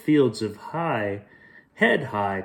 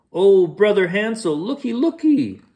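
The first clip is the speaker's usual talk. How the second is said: high, hammed-up girlish voice; disguised Gretel; 8 semitones higher, 4 dB louder than usual. Disguised wolf calls to brother in high put-on girl voice. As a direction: play the sweet lost sister.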